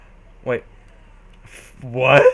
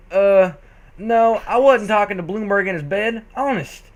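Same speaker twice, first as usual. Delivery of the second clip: panicked slur; 5 semitones higher, 3 dB louder than usual. Acted. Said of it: "She managed to slur out".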